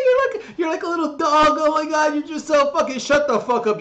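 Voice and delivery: very high, loud shouting; excited shout. Real, not acted. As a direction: blurt it out, overexcited. Yelling at viewer.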